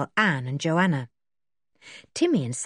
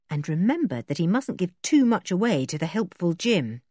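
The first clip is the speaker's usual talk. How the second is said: ordinary delivery, nothing marked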